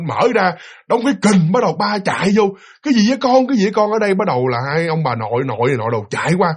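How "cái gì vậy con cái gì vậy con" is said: higher repeated question; acted dad rushing in worried; alarmed father. Father running in to his screaming child, alarmed.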